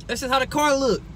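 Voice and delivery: talking ghetto. Real, not acted. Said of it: "Stop talking like that".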